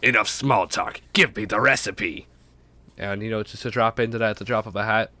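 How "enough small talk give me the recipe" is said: debutante voice. Acted. Cutting off friendly chat to demand the recipe, debutante voice. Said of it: "that debutante voice".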